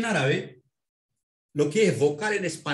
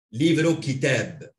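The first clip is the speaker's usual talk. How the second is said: slow and deliberate; slow teaching demo; 4 dB louder, slower than usual. Shown as a demonstration. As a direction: give the word for the student to copy. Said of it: "Agrego i al final".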